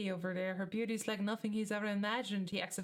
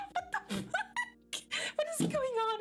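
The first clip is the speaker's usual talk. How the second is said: bewildered outburst. Real, not acted. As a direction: shoot up in pitch in disbelief. Confused by peacocks squawking.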